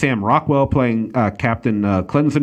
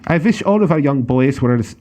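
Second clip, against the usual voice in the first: mock German accent, half-hearted; German accent, second try. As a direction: try the German officer voice again. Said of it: "Try again".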